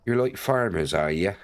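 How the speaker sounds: attempted Bristolian farmer talk; Bristolian accent. Streamer guessing at the accent for chat, Bristolian accent. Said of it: "what a Bristolian accent sounds like".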